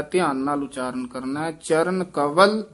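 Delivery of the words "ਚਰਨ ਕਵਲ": ਕਵਲ said with a v sound, not ਕਮਲ; careful pronunciation. Shown as a demonstration. Teacher showing the student ਕਵਲ with vava, not mamma. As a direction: voice the v clearly in ਕਵਲ. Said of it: "ਇੱਥੇ ਵਾਵੇ ਨਾਲ ਆਇਆ".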